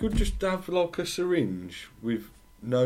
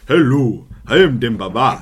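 booming, loud African accent; 10 dB louder than usual. Shown as a demonstration. Host retries his footballer introduction, loud African accent. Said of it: "African accent".

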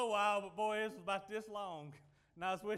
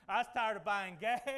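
laughing; 2 semitones lower, 5 dB louder than usual. Real, not acted. Laughs on this line.

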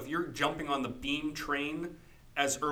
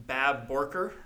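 put-on accent on a mock host name; mock drawled accent; 4 dB louder, slower than usual. Jokey mock host name question.

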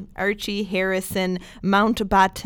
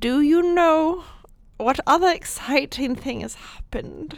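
playful teasing build-up; 7 semitones higher than usual. Pretend. Host builds up royal news teaser.

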